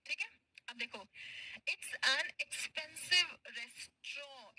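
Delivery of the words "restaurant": "restaurant" as "res-traw", final t silent; modelled pronunciation. Shown as a demonstration. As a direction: say "restaurant" slowly, ending in "straw". Teacher models the French-style pronunciation. ("restaurant" को "रेस्ट्रॉ" बोलकर सिखाते हुए)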